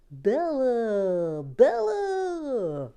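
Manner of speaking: loud, high wailing call of the name; dramatic cry of name. Pretend. To the new minifigure, a loud wailing Bella. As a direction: cry it out like a tragic heroine.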